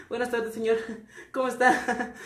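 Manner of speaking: nervous laughing greeting. Shown as a demonstration. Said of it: "así como de".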